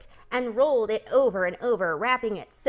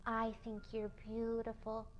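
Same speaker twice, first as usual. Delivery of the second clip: much softer, hushed compliment; soft admiration; 12 dB quieter than usual. Acted. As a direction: say it in awe, barely aloud. Pig admires spider softly.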